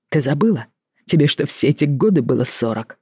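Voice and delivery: usual speaking voice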